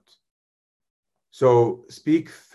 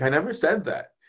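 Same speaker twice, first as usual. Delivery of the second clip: higher, mock-defensive protest from God; lightly voiced God defending himself against blame; 4 semitones higher than usual. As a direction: plead innocence, a touch higher and exasperated. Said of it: "He's like".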